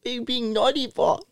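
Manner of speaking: lightly put-on baby talk. Asking best friend about being naughty, baby voice. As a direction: question him in baby talk. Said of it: "do the baby voice".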